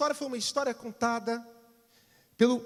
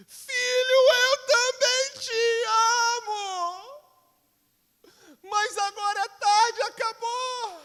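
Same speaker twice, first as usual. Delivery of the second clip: much higher, loud, slow, breaking into tears; crying shout; 11 semitones higher, 7 dB louder, slower than usual. Acted. Father crying out over his dead son, anguished and tearful. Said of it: "Ele grita".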